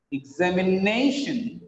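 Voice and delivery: "Examination" with NA stressed, exami-NA-shun; stress on penultimate syllable. Shown as a demonstration. Teacher showing the rule, "Examination" stressed on NA. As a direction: land on NA in "Examination". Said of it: "the penultimate syllable is stressed".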